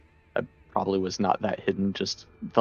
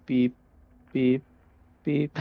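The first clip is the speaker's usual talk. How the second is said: beep noises; 4 semitones higher, much slower than usual. Retold or imitated. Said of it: "you weren't standing there going".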